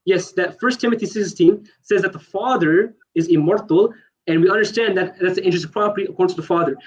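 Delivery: rapid-fire run through the citation; speaking too fast. Real, not acted. Debater citing scripture to an opponent, speaking too fast. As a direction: rush through the argument without a break. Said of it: "You're speaking too fast".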